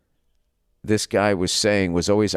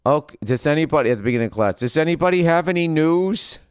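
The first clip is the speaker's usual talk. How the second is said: acting class host; 7 semitones higher than usual. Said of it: "they would say".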